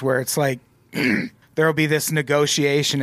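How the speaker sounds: ordinary delivery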